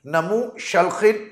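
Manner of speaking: Namu Shalkhin drawn out slowly; slow pronunciation of Namu Shalkhin. Shown as a demonstration. Teacher showing how the spelled word comes out, Namu Shalkhin said slowly. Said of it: "तो इस तरह ये बन गया".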